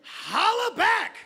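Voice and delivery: slow, drawn-out rapper callout; rapper sign-off. Pretend. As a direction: stretch it like a rapper. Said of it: "in his hip-hop talk".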